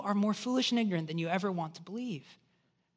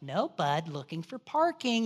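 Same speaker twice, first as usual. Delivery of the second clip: more gentle; 4 semitones lower than usual. Retold or imitated. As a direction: ease off, gentle with a three-year-old. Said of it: "I was more gentle".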